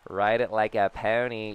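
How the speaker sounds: loud, high, whooping celebration; real joy yelling at a homer; excited cheering. Real, not acted. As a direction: cheer the big hit as it flies. Celebrating a home run.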